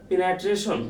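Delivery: "পিনাট্রেশন" with an open "na" in the second syllable; learner's mispronunciation. Shown as a demonstration. Teacher sounding it out as an unsure learner would, mispronounced. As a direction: say "পিনাট্রেশন" as pe-nya-tre-shon. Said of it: "আপনি এইভাবে উচ্চারণ করলেন".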